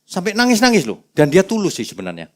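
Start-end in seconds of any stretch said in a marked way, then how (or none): none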